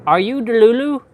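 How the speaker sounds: high, loud imitation Jamaican accent; Jamaican or African accent. TikTok guy questioning girls, imitated Jamaican accent. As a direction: imitate a Jamaican man's accent, rising at the end. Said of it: "he'd be talking like this".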